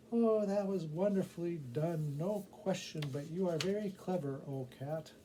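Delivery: a mother thanking the clever cat; admiring woman. Acted.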